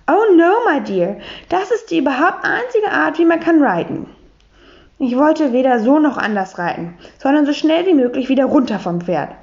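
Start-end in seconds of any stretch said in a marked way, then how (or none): 0.1-4.1 a hint of an English lady speaking broken German; higher, English-accented, prim; light English accent. Miss Brightwhistle answers Pauline.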